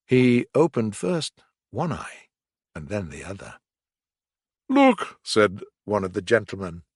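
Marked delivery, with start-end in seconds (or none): 4.7-5.2 gentleman voice. A narrator's reading. Gentleman calls out.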